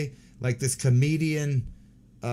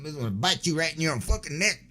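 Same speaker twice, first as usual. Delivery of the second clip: mock scary; 4 semitones higher, faster than usual. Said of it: "Just kidding".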